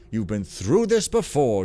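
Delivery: loud, bouncy old cartoon narrator; vintage cartoon voice. Shown as a demonstration. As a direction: read it like a 1940s cartoon host. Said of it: "golly, I talk like an old cartoon".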